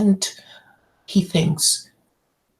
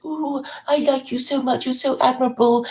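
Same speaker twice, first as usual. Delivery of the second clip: mock gushing; 5 semitones higher than usual. Mocking a gushing associate.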